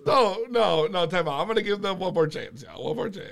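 ordinary talk

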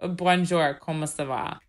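French greeting in a mimicked accent; mock French accent. Imagining the actor speaking French, mock French accent. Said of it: "do a good French accent".

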